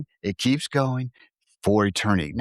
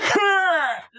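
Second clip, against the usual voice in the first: squeaky laugh. Pretend. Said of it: "do a really good Alf impression".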